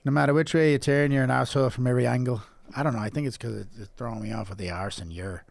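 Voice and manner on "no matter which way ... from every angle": put-on botched Scouse accent slipping into Irish; Irish-sounding Scouse attempt. Reading an insult to co-host, accidental Irish accent. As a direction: try Scouse, land in Irish. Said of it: "I'm still Irish".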